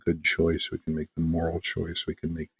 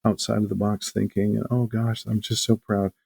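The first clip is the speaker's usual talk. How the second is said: higher, teary-proud gushing; gushing proud wife; 5 semitones higher than usual. Retold or imitated. Wife the teacher, moved by the kids' peaceful choice, higher gushing. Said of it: "she's like".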